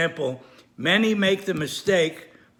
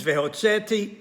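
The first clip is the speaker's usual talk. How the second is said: Vehotzeti stressed on "tze"; stress before last syllable; 2 semitones higher than usual. Shown as a demonstration. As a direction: put the weight on "tze" of Vehotzeti, not on "ti". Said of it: "the meaning of the word is changed".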